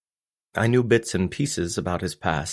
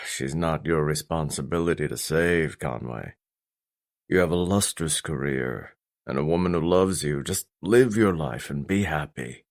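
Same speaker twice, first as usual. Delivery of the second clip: lightly voiced father, lower and weary; a hint of a tired, firm father; stern father, exasperated; 3 semitones lower than usual. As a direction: gently talk your son out of it.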